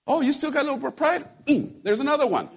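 high, exaggerated gloating taunt; mock cruel God. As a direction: play a punisher hunting for faults. Acting a cruel God breaking people.

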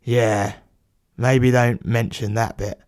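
low, subdued reply; sighing reluctance. Acted. Plumber advising the writer to leave it out, sighing. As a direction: let it out with a weary sigh. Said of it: "The plumber sighs".

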